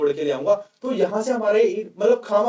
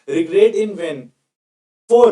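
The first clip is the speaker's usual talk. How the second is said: slow read-out; 6 dB louder, much slower than usual. Shown as a demonstration. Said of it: "reads the textbook meaning aloud".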